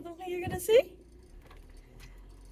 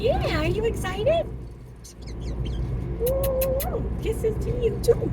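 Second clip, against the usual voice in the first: high, loud, drawn-out cooing; excited pet talk; 10 semitones higher, 3 dB louder, slower than usual. Real, not acted. Owner sends kisses to pet bird, high excited cooing. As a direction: gush at a beloved pet bird.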